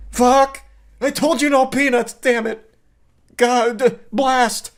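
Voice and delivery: high, loud mock fury; mock rage. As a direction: rant like you just ate the peanuts. Raging about eaten peanuts.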